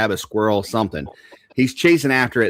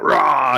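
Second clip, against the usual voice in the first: mock bear roar; 5 semitones higher, 4 dB louder than usual. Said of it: "he scares, he's like".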